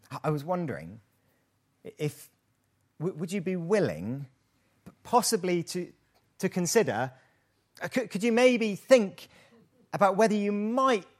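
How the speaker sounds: mock hesitant, hedging request; overly polite Brit. Preacher mocks British politeness with a dithering request. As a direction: stumble through it like an over-polite Brit. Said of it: "We, we take a long time to get to the point".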